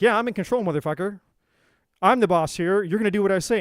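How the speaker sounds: a controlling partner laying down the law, loud; bossy angry persecutor. Retold or imitated. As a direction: throw your weight around, barking orders. Angry persecutor voiced, domineering.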